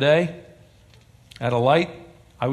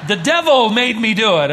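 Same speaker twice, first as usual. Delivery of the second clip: Flip Wilson catchphrase; 4 semitones higher, 4 dB louder than usual. Retold or imitated. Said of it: "What did he say?".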